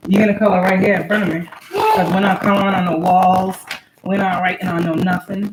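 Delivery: firm mom instructions. Real, not acted. Mother instructing child.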